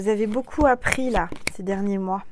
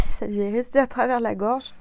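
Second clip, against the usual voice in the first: choking on a drink; 4 dB louder than usual. Real, not acted. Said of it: "J'ai avalé de travers".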